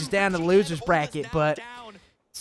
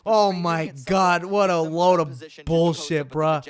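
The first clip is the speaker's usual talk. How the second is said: mock a Boston guy ranting at a game; Boston accent; 2 semitones lower than usual. Streamer mocking Boston viewers, in a mock Boston accent. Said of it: "if you're from Boston and you talk like this".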